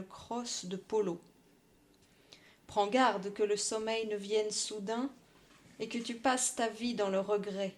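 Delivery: measured poem recital; poem reading. Acted. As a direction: read it like a poem. Reads poem aloud.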